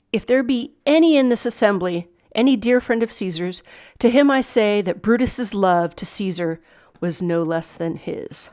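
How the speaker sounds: emphatic openings, slowing to a close; lightly declaimed funeral oration; Shakespeare speech read aloud. Acted.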